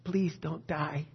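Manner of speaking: soft, slow imitation of a whisper; retold whisper. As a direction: retell it as a hushed, drawn-out plea. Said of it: "she whispered in his ear".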